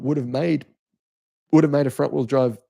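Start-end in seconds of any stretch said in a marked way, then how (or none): 1.5-2.6 burp while talking; speaking through a burp. Real, not acted. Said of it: "Excuse me, I'm burping here".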